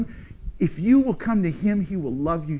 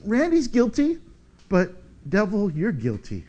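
Jesus rebuking the devil. Pretend. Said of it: "And Jesus says".

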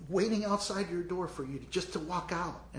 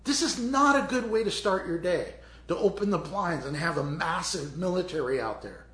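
panicked servant; 2 semitones higher, 4 dB louder than usual. Acted. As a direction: play the scared servant whining to his master. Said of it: "he says".

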